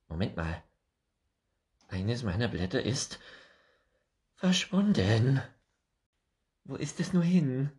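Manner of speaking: high, bright squirrel voice rising into alarm; a fussy little squirrel who suddenly misses a leaf; excitable squirrel. Acted. Squirrel figure in read story.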